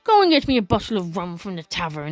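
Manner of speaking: lightly voiced old sea dog; a hint of a salty pirate's brogue; hoarse old pirate. Old sailor begs a lad for rum, lightly hoarse pirate. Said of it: "the sailor says hoarsely".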